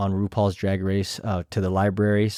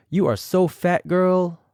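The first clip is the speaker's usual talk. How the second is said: higher, sassy drag-queen read, lightly voiced; imitating Jessica Wilde; 8 semitones higher than usual. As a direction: toss off the insult like a catty queen. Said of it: "I tried my best to imitate them".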